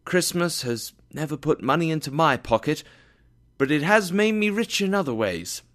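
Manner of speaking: high, heartfelt defence; fervent speech. A narrator's reading. Nephew's earnest speech praising Christmas.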